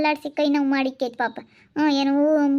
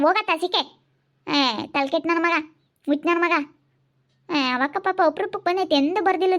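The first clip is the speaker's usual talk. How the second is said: angry scolding. Acted. Scolding the foolish uncle.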